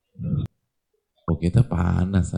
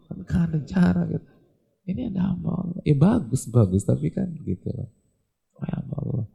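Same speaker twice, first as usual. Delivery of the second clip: much higher, sing-song mock voice; mocking modern speaker; 8 semitones higher than usual. Preacher mimics people today scoffing at being called servant of God. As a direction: poke fun at how people talk today. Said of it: "kita hamba Allah".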